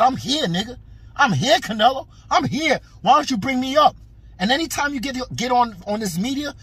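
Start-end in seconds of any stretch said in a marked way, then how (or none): 0.0-4.0 taunting. Retold or imitated. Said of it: "push it in his face and say".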